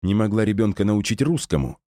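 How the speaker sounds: sudden angry outburst; flaring up. Acted. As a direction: snap out in irritation. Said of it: "вспылил Гера".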